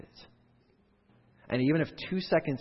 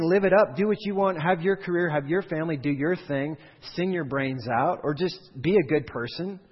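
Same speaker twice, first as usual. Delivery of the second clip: mocking carefree offer; 5 semitones higher, 5 dB louder than usual. Mock of what Jesus doesn't say.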